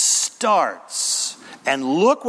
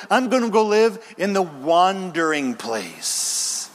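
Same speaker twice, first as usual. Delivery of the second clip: defiant quitter; 3 semitones higher than usual. Acted. Preacher voicing a rebellious believer.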